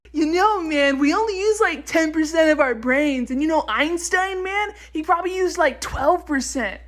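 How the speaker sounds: lazy know-it-all dude voice; mock stoner dude. Mocking a bro who spreads myths.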